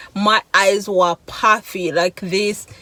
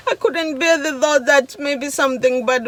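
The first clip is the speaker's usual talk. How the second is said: laughing through tears; 4 semitones higher than usual. Real, not acted.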